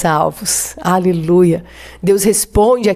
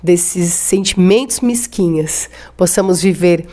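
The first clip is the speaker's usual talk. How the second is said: slow, earnest prayer to the Lord; slower than usual. Acted. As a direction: pray it out, drawing the words out. Pastor leads closing prayer. (oração pausada e fervorosa)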